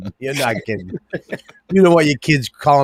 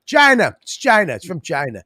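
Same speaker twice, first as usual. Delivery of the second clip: mock Trump insistence; 2 semitones higher than usual. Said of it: "And then he comes out there".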